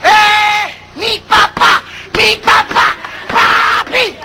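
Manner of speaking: put-on high-pitched, gleeful little-kid cries; child's delighted shout. Child spotting daddy from afar, excited high shouting.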